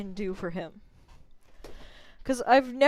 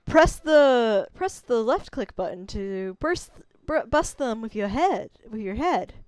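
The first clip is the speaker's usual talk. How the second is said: character read slipping into southern; southern accent; 4 dB louder than usual. Shown as a demonstration. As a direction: read the tutorial line with a southern lilt. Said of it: "my voice just keeps going to southern".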